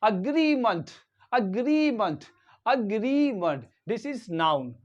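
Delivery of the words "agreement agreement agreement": "agreement" as uh-GREE-munt, weak final syllable; demonstrating pronunciation. Shown as a demonstration. Teacher models three-syllable word agreement, careful pronunciation. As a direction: say "agreement" deliberately, ending in munt. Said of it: "third syllable is month".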